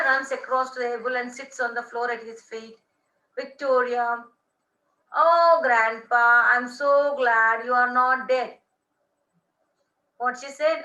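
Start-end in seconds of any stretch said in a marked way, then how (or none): 5.2-8.5 overjoyed. Acted. Granddaughter greets grandfather alive.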